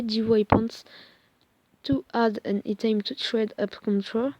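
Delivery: slow English read with a heavy French accent. Real, not acted. Gamer reading on-screen English to viewers, French accent. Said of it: "désolée pour mon accent anglais".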